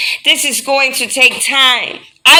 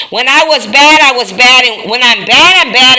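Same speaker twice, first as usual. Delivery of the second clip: louder, punchy and defiant; emphatic; 3 semitones higher, 6 dB louder than usual. Real, not acted. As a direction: hit it hard and unapologetic. Contrasting bad and good self.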